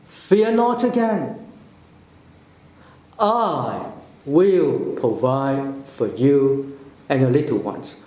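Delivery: kind, unhurried promise; spoke kindly. Shown as a demonstration. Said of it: "spoke kindly".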